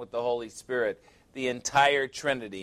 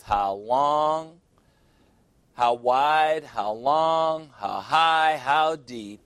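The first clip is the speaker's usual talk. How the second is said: rising preacher's call; 3 semitones higher, 5 dB louder, much slower than usual. Acted. Preacher building on the dimensions.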